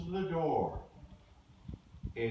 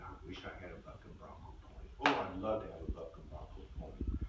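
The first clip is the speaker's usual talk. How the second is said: dreamy wish; 9 semitones lower, 6 dB quieter, faster than usual. A narrator's reading. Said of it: "he has a dream".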